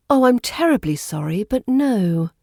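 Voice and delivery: politely apologetic British refusal; a touch of apology in a classy no. Shown as a demonstration. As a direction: decline with posh, courteous regret. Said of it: "feeling apologetic".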